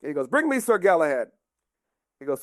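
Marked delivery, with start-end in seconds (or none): 0.3-1.3 higher, lightly voiced royal order; commanding king. King Arthur summoning Sir Galahad, lightly kingly command. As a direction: play a king summoning a knight.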